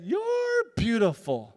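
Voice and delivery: slow, lightly voiced loving old lady; lovingly. Old lady holding his hand, slow and loving. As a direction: say it slow and tender like a grandma. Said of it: "so lovingly".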